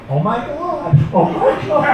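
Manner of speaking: put-on high, small toddler echo; tiny high-pitched child voice; two-year-old daughter. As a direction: mimic a little girl parroting her parent. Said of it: "My two-year-old daughter's in the back seat just going".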